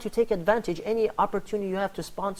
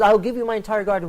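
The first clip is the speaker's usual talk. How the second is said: louder, pressing the offer; insistent repeat; 6 dB louder than usual. Retold or imitated. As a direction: push the offer harder the second time. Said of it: "He says".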